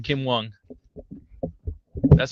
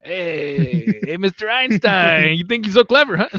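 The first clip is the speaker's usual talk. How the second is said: mock tough guy; 6 semitones higher, slower than usual. Mock threatening cartel guy.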